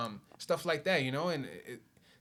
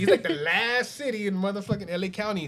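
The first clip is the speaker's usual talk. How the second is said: laughing; 6 semitones higher, 8 dB louder than usual. Real, not acted. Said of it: "laughing along".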